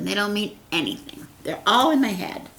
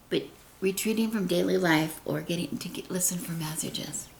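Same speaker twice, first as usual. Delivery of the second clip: reading in a whisper; hushed reading; 6 dB quieter than usual. Real, not acted. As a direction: whisper the lines softly.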